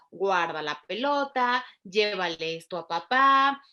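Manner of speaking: lightly acted instructions to a toddler; simple instructions. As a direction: give each little command slowly and distinctly. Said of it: "pueda seguir instrucciones sencillas. Por ejemplo".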